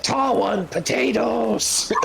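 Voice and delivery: high, drawn-out kobold call. Acted. Kobold bringing potatoes to the tall one, high drawn-out voice. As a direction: stretch it out in a high creature voice.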